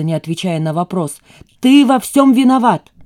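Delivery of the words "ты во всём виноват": higher, louder accusing yell; shouting. A narrator's reading. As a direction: blame him at full voice. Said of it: "закричала Лиза". (крик: ты во всём виноват)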